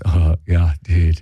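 mock a laid-back LA stoner; stoner surfer dude. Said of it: "their original language sounded like this".

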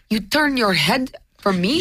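slow mock-Italian question; Italian accent. Friend mimicking an Italian stranger's offence, Italian accent. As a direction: put on the Italian guy's accent. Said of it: "Wait, he had an accent?".

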